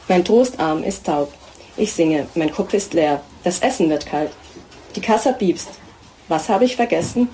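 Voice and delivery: measured, deliberate poetry reading with heavy pauses; poem reading. Acted. Poet reading her poem to an audience, measured.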